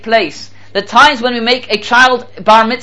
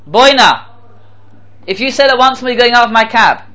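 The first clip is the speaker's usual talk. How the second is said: acted cab driver's raised-voice warning; higher, mildly outraged ultimatum; indignant threat; 4 semitones higher than usual. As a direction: warn him off indignantly. Acted driver threatens to eject passenger.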